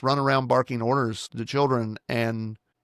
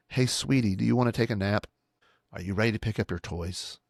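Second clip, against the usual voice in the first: gentle asking tone, softer at the end; polite and kind; 3 semitones lower, 5 dB quieter than usual. Shown as a demonstration. Parent to child, disguising instructions as sweet questions. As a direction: sweetly offer the command as a question. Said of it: "sounds like we're being polite and kind".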